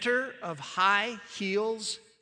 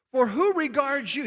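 lightly mocking question, higher on WHO; a little sarcastic; 4 semitones higher, 4 dB louder than usual. Preacher reading Paul's challenge to the Corinthians, a little sarcastic. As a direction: ask it with a touch of sarcasm. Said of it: "he's getting a little sarcastic here".

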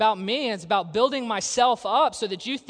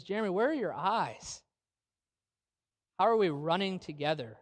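softly spoken, caring challenge; gentle nudge; 2 semitones lower, 6 dB quieter than usual. Retold or imitated. Wife gently redirecting her husband's focus, soft and caring. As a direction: steer him back gently, keeping it soft. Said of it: "gently shifted my eyes back".

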